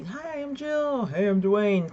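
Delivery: slow, lifted singsong greeting; lightly acted meet-and-greet hello; mock friendly introduction. Fan and star introducing themselves, mock friendly. Acts out imagined polite introductions.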